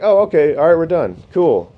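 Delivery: high, startled and a bit loud; mock-casual surprise. His own reply to the surgeon, startled and high. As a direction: act cool while clearly thrown. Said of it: "I was like".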